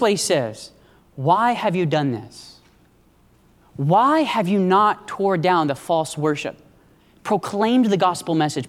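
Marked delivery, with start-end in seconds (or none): 1.2-2.6 low, slow, subdued hurt; hurt, pained. Acted. Preacher voicing God's question to his people, hurt. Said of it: "He's hurt". 3.8-8.7 low, slow, subdued hurt; God. Acted. Preacher voicing God questioning his church, hurt. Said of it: "He's hurt".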